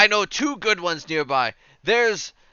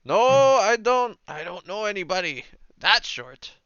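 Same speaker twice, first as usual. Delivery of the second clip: passer-by character; 6 semitones higher than usual. Acted. Third person answers about Clang, light character voice. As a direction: lightly play a puzzled local.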